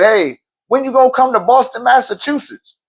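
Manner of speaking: a light mock of an eager student; imitating Ricky. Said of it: "he said".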